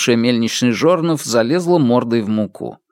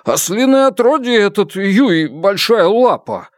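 cursing; 9 semitones higher, 3 dB louder than usual. Acted. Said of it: "выругался он".

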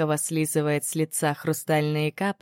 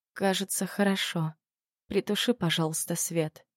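quiet, slurred and weak; barely moving the tongue, mumbling; slurred, dry mouth; 5 dB quieter than usual. Acted. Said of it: "речь выходила невнятной".

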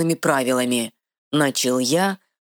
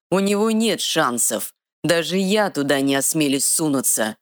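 sneering dark lord; 4 semitones higher than usual. Acted.

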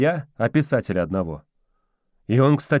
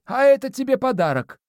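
mumbling domovoi; 14 semitones higher than usual. A narrator's reading. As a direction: mumble it like a toothless old spirit. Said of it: "прошамкал домовой".

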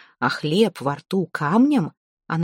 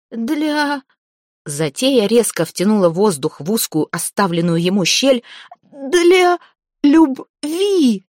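strangled cry; 5 semitones higher than usual. Acted. Zateya gasps through her squeezed throat, terrified. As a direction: force it out between gasps for air. Choked gasping answer.

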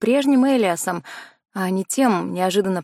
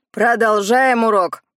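loud, slow gym-teacher command; coach's shout; 5 dB louder, slower than usual. Acted. Gym coach calls the class back, loud and slow. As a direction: bark the order across the gym. Coach blows whistle, resumes lesson.

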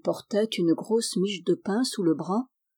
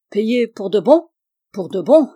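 excited disbelief; 7 dB louder than usual. Acted. Old man asks twice, excited.

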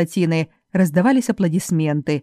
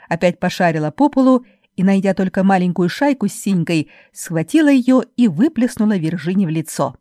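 ordinary delivery, nothing marked

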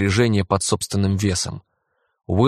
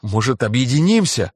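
shaking with laughter; 5 semitones higher, 3 dB louder than usual. Acted. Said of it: "Он затрясся от смеха".

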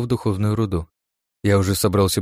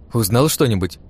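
curious. Acted. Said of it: "спросила любопытная Ирен".

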